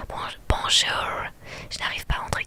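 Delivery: put-on lightly American-accented French. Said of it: "je suis pas très bonne en accent". (accent américain)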